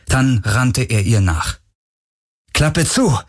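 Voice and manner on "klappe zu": higher, urgent call to shut it; called order. Acted. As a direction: get that hatch closed now. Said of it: "rief er".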